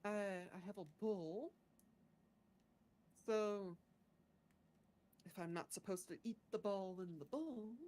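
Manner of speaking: lightly voiced adventurer reasoning it out; deliberate adventurer character. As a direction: pose the question carefully, with pauses. Player questions the other in character.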